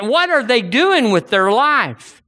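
preacher's fed-up cry; exasperated outburst. Real, not acted. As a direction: let the frustration burst out.

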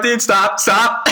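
panicked dude. Retold or imitated. Kid hoisted on a bully's shoulders, panicked high pleading. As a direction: squeal it like you're being lifted.

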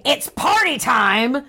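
mock yell, stretching the words; hammed-up reveler's call without real volume; retold yell.

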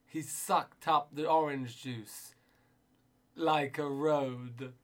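very slow, spaced-out poetry reading; mock earnest poem recital, slow and deliberate. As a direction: read it like a solemn poet at an open mic.

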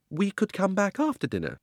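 put-on high, anxious young girl begging; frightened girl pleads with the uncle; pleading girl. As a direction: beg to be let out, voice up high. Polly bargains.

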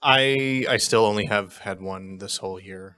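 downcast admission, tone sinking and softening; sad, sheepish. Real, not acted. Co-host admits having only one lunch all year, sheepish and sad. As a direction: own up reluctantly, voice dropping away. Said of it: "he sounded very sad".

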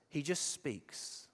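soft and slow, each word placed; quiet, slow. Shown as a demonstration. Preacher to congregation, showing Jesus' calm, quiet and slow. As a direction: let it land quietly and unhurried. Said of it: "Do you see the difference?".

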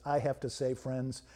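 lightly voiced mechanical speech device; hint of a spooky robot voice. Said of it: "with its spooky mechanical voice".

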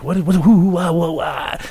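high, muddled stammering; flustered babble. Retold or imitated. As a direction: imitate being too tripped-out to form words. Imitates himself too high to talk.

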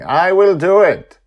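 high, loud eager call; eager shout. Acted. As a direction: announce it boldly. Character declares action.

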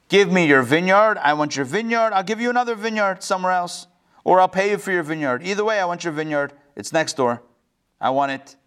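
insistent, pushy royal demand, quickening; demanding king. Acted. King Achav to his neighbor, insistent demand. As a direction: press him like a spoiled king.

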